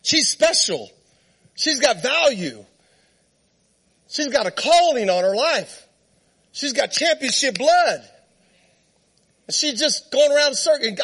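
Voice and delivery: mild pleading, pitched a little up; retold crying out. Trainer to God about his horse, exasperated cry. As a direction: complain upward in mock exasperation. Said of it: "I cried out to God".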